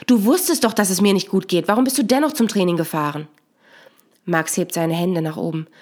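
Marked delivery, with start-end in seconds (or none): 0.1-3.3 snapping angrily. Acted. Woman snapping at her partner for leaving her alone. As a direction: lash out at him, bitter. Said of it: "giftet ihn an".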